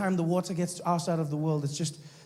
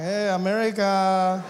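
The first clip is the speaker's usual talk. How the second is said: slow, louder call back; mock greeting; 5 dB louder, slower than usual. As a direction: parody her greeting, drawn out. Mockingly returns her loud greeting.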